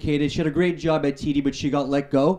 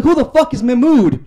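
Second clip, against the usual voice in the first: higher, slower, louder punchline question; indignant mock outrage; 9 semitones higher, 7 dB louder than usual. Boyfriend mishearing mood as Mahmood, slow, high, outraged question. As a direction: deliver it like a baffled, offended boyfriend. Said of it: "I'm like".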